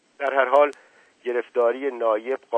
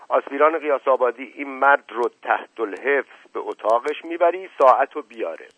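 mildly raised, brisk command; commanding order; 4 semitones higher, 6 dB louder than usual. A narrator's reading. Officer sending his cadet with the prisoner, loud command. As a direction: issue an order to a subordinate.

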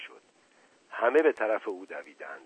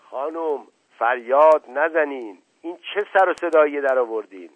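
stern rebuke; 5 semitones higher, 7 dB louder than usual. Acted. Uncle rebukes a shouting woman.

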